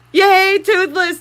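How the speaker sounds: high, loud drawn-out cheer. Real, not acted. Streamer cheering her fish, high and drawn out.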